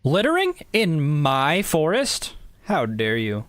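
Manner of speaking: hammed-up scolding of a litterbug; indignant park ranger. Park ranger in a lab coat scolding an unseen litterer, in mild mock outrage. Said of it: "I am a park ranger".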